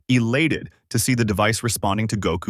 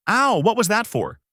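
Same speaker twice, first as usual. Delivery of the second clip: high-pitched, indignant narrated yelp; mild yell; 11 semitones higher than usual. A narrator's reading. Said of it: "yells out".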